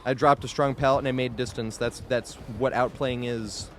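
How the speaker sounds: mock-proud, dripping irony; sarcastic. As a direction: boast in jest. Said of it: "Being very sarcastic".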